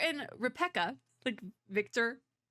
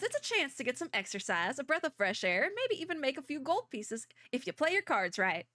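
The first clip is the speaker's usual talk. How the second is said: bad Southern accent; 3 semitones higher than usual. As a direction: read it as a folksy Southerner, badly. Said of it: "the really bad Southern accent".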